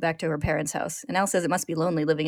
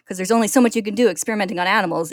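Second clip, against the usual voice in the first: loud, sneering rage; bitter fury; 4 semitones higher, 7 dB louder than usual. A narrator's reading. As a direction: spit it out in disgust. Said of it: "Ed continues".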